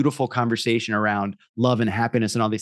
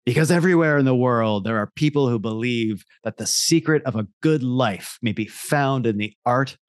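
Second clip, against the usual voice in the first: ad voiceover. Acted. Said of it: "I'll read that again".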